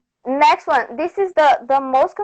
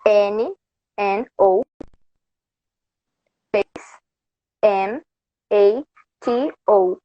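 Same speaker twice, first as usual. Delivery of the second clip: letter by letter, pausing between each; spelling it out; 4 semitones lower than usual. Shown as a demonstration. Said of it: "okay, it's".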